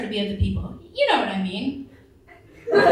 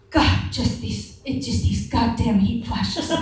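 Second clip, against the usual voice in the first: mock huffing complaint; slower than usual. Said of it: "My mother, huffing and puffing".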